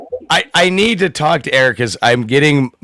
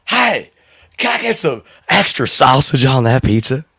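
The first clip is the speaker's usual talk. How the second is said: Harry Carey voice. Pretend. Ordering pizza at Aurelio's, light Harry Carey impression. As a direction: toss off the order like the old announcer. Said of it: "order the pizza in that voice".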